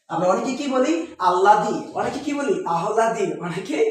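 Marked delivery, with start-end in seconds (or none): 1.3-1.8 আল্লাদি with a doubled l and no h; common mispronunciation. Shown as a demonstration. Teacher quoting a common mistake, আল্লাদি as alladi. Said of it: "অনেকেই ভুল করি". 2.7-3.3 আহ্লাদি with h before the l, "ahladi"; common mispronunciation. Shown as a demonstration. Teacher quoting a common mistake, আহ্লাদি as ah-ladi. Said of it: "এটা ভুল করি".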